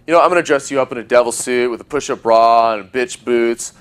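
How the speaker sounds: rattled off in one breath, no pauses; just blurt the whole line out. Shown as a demonstration. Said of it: "If I just blurt these lines out".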